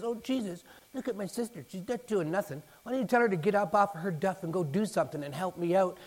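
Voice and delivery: lightly voiced sister griping to Jesus; complaining Martha. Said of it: "she complains to Jesus and says".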